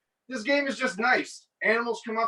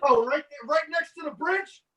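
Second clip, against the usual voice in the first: mock outrage; 8 semitones higher than usual. Mock outrage at friend's house.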